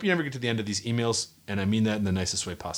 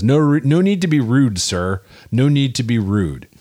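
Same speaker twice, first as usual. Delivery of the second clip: mock polite scold; 7 dB louder than usual. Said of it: "Matt says".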